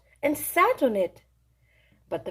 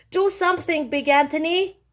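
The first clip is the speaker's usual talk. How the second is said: shouting; 4 semitones higher than usual. Acted. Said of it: "they shouted".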